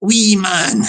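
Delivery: hammed-up Scottish householder squaring up; person inside answering back. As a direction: throw the threat back through the door. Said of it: "inside's went like that".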